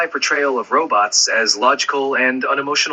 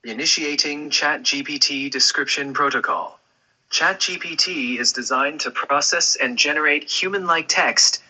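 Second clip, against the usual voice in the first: British robot voice. Pretend. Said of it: "with a thick British accent as well".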